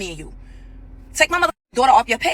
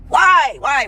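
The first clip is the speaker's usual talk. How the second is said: outraged; 3 semitones higher, 6 dB louder than usual. Real, not acted. Outraged at the daughter claim.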